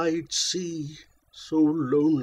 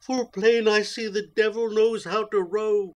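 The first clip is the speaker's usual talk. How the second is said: put-on crazed boy; 7 semitones higher than usual. A narrator's reading. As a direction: cry it out like a boy gone mad. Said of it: "who now doth crazy go".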